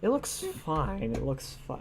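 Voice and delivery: real accidental voice crack. Real, not acted. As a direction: let the voice break mid-word. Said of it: "my voice just cracked".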